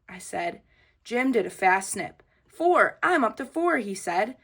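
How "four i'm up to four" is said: gloating shout. A narrator's reading. Jim bragging in race.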